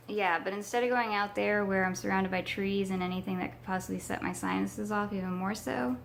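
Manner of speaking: hoarse, cracking sick voice. Real, not acted. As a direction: voice breaking from a sinus infection. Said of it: "you can hear my voice cracking".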